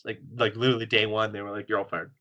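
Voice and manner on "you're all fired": laughing mock quote. Studio bosses quoted, laughing.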